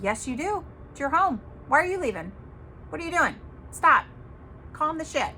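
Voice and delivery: no-nonsense friend giving orders; retold tough love. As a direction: talk sense into a panicking friend, firmly. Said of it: "tough love is, is good".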